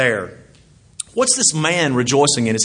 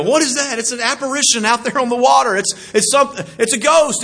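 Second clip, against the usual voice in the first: mild mock fright; 8 semitones higher than usual. Disciples fear a ghost.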